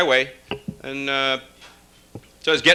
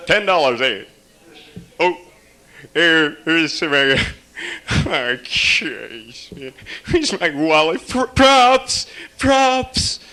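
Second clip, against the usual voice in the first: higher, hesitant fumbling actor; flustered actor; 3 semitones higher, much slower than usual. Retold or imitated. Actor lost mid-scene calling for props, high and flustered. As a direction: fumble for the wallet, then call for props. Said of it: "He's like".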